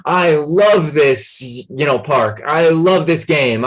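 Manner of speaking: slow, drawn-out mock enthusiasm; excited declaration. Shown as a demonstration. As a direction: proclaim it like you love it. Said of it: "some sort of declaration".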